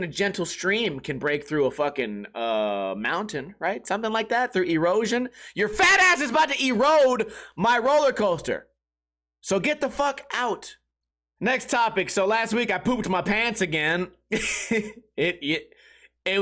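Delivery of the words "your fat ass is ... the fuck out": mock rant. Operator kicking rider off ride.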